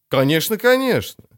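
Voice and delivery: high hasty exclamation; belated exclaim. A narrator's reading. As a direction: blurt it out too late. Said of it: "запоздало воскликнул Хоральд". (запоздалое восклицание)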